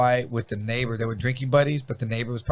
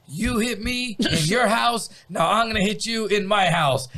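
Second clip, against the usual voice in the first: higher, slow threatening tone; menacing dad; 6 semitones higher than usual. Retold or imitated. Dad warning the neighbor before he hits him, menacing. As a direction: lay the threat down slowly.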